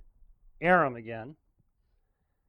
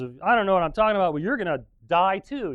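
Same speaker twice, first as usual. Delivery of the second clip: quick, louder comeback; indignant retort; 3 semitones higher, 5 dB louder than usual. Retold or imitated. Micaiah snapping back at the prophet who slapped him, fast retort. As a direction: throw his words back at him, fast.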